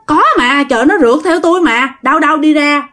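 agitated insistence. Acted. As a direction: insist urgently that it really happened. Frightened mother insists son chased her.

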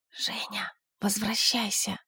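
тревожный шёпот, медленно в конце; позвать её шёпотом, волнуясь; взволнованный шёпот. A narrator's reading. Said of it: "раздался взволнованный голос Олега". (взволнованный шёпот Олега из укрытия)

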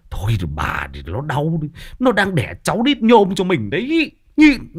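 restraining father-in-law. Acted. Father-in-law telling his wife to put up with it, insistent. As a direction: hush the wife, then insist. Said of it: "Thế nhưng ông bố chồng thì".

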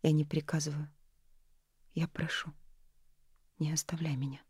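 hushed plea to her love not to leave; pleading softly. A narrator's reading. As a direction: beg him, dropping to a whisper. Nori begs him not to leave.

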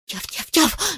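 high-pitched puppy yaps; insistent barking. A narrator's reading. Puppy keeps at the dozing grouse, barking insistently. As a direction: keep yapping, persistent. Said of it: "не унимался Тузик".

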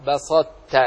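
slow بسطت, heavy ط merging into ت; emphatic closure kept. Shown as a demonstration. Teacher giving the second example, بسطت with emphatic ط into ت. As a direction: keep the ط in بسطت thick, release as ت. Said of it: "صفة الإطباق".

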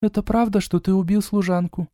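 a hint of a curious younger girl; gently voiced sister Eda asking; sister's voice. A narrator's reading. Eda asks accusingly.

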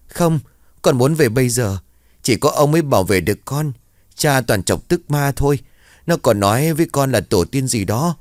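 put-on high, tearful child's pleading; a scared boy begging to go to grandpa; sobbing child. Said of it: "thằng bé nức nở".

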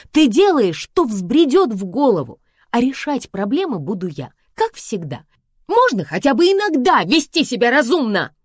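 high, loud exasperated yell. Acted. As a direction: yell down the phone at her. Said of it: "вопила я".

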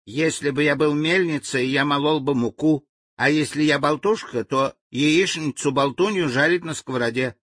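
high, humble native voice; meek reply. Acted. Frightened native begs the angry general for clear orders, meekly. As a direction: plead meekly to be understood. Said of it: "тихо молвил он и покорно".

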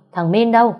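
high, loud demand; shouted demand. Acted. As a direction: yell for the boy. Bursting in demanding the grandson.

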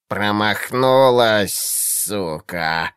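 slow, low hissing witch voice; gloating hiss. A narrator's reading. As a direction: hiss it out, pleased with herself. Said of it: "раздалось довольное шипение". (довольное змеиное шипение)

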